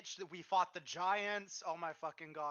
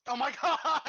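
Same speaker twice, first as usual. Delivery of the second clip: laughing exclamation; 9 semitones higher, 13 dB louder than usual. Real, not acted. Shocked at the witch returning.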